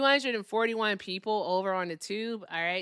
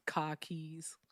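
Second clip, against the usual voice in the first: R-less Boston accent; 4 semitones lower, 9 dB quieter than usual. Shown as a demonstration. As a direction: drop the R like a Bostonian. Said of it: "here's my Boston accent".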